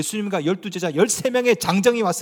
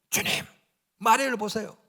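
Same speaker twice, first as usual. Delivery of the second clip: aggressive complaint; 5 dB quieter than usual. Retold or imitated. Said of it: "언어가 공격적이에요".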